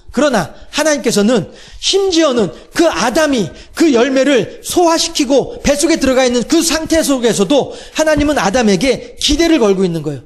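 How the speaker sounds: usual speaking voice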